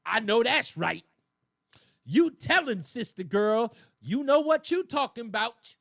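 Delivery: loud, hammed-up church congregation cheering; mock church crowd shouting agreement; mock amen corner. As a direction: ham up an amen corner egging her on. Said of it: "a congregation in the back going".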